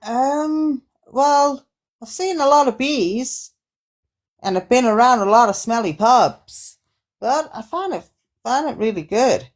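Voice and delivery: lightly voiced Australian guest; a woman from Australia. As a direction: play a hesitant interviewee from Australia. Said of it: "your host this evening is the speaker".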